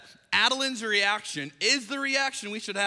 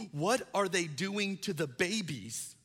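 slow, mock-sobbing little girl; imitated tearful child; slower than usual. Daughter asking her dad about the babies, imitated tearfulness. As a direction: draw the words out as if through tears. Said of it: "she's sobbing".

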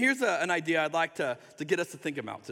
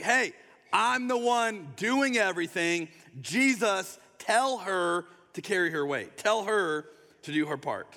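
put-on bossy older sibling. Older sister demanding Jesus make her sibling help, bossy. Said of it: "classic older sibling behavior".

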